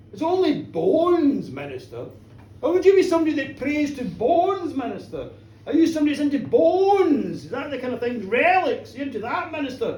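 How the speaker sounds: theatrical, teasing interrogation; lightly voiced taunting gentleman. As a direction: needle the minister with swooping emphasis. Tall gentleman questioning the minister.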